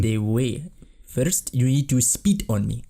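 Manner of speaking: slow, commanding queen voice; drawn-out queenly order; evil queen. Acted.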